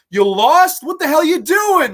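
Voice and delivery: imitating an outraged coach, loud and high; genuinely upset. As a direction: yell it in high-pitched disbelief. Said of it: "he gets so genuinely upset".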